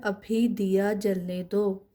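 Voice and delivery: each sentence read slowly and evenly, twice; slow model reading. Shown as a demonstration. Teacher reads the primer sentences slowly for students. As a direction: read it out for the class to copy. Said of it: "अब ये जुमला बना हुआ है".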